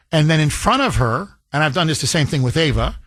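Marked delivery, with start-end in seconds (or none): none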